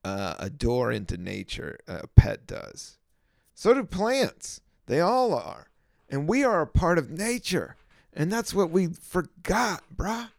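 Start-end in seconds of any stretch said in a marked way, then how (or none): 3.5-10.3 loud, high-pitched mock-podcaster preaching; kidding bro podcaster. Preaching about nature in jest to listeners, kidding bro podcaster voice. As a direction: put on another podcaster's bro voice, higher and louder. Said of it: "like, kiddingly".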